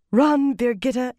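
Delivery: will her to flee; desperate urging. A narrator's reading. Elaine silently begs Birgitta to escape, urgent.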